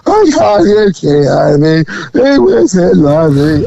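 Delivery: hammed-up incoherent crying; imitated sobbing. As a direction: imitate a distraught woman babbling through sobs. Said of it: "crying and crying and sobbing".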